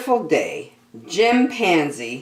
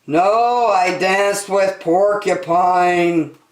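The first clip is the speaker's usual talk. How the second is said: Norman; 4 semitones higher, 4 dB louder, slower than usual. Acted. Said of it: "said Norman".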